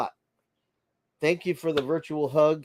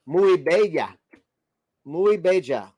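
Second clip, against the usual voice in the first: put-on Puerto Rican accent. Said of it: "as a Puerto Rican would say it".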